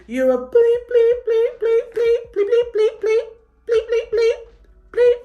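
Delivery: shrill high screaming rant, bleeped out; imitated screaming. Girl outside the club screaming at security, high shrill yell. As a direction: mimic her screaming at the guard. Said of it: "like, shouting".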